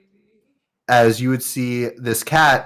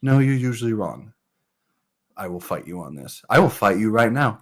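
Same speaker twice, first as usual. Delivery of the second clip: quick bickering; 3 dB quieter, faster than usual. Acted. Kids bickering.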